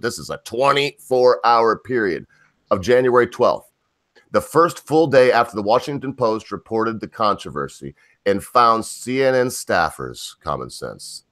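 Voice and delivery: slow, deliberate news reading; emphatic, spaced-out reading of a report; article read-aloud. Real, not acted.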